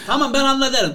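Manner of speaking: cool fixer. Acted. Mümtaz repeats promise.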